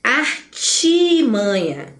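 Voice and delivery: "Artimanha" drawn out on a long TI; correct pronunciation. Shown as a demonstration. Teacher models artimanha with I, correct pronunciation. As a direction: slowly stretch the chi sound in "Artimanha". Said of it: "é artimanha".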